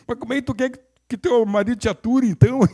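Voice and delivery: a lightly voiced punchline to the client; retold retort.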